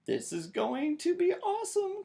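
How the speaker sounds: put-on high, eager little girl voice; bubbly with excitement; a child thrilled to play; excited thought. A narrator's reading. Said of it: "thought Sister".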